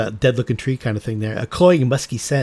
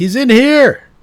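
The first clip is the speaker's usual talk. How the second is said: very high, very loud in-character yell; 13 semitones higher, 10 dB louder than usual. Voicing a character who calls out to everybody: character yelling to everybody. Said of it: "he yells out to everybody".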